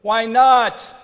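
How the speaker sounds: loud, high self-pitying protest; whiny why not. Pretend. Preacher mimics David's complaint, loud whine. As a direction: wail it like a hurt child. Mocking self-pity, then answering it.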